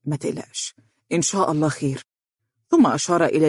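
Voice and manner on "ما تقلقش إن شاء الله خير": soft, quiet comfort; reassuring. Acted. Fares pats the father's shoulder, soft reassurance. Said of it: "مطمئنا وقال".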